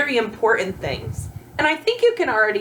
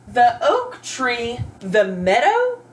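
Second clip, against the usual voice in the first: slow nonsense reading; slower than usual. Shown as a demonstration. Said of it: "does that make sense".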